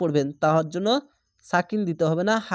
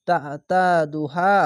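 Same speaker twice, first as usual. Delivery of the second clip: very slow drawn-out recitation; Quran recitation; much slower than usual. Shown as a demonstration. Teacher showing students the recited word, slowly drawn out. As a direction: stretch each syllable like tajweed. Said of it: "এক আলিফ টেনে পড়বেন".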